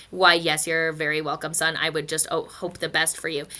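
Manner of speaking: lightly voiced low, fatherly animal; reply as a kindly, formal father; a hint of a stately papa; grown-up prairie dog. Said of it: "the grown-up prairie dog says".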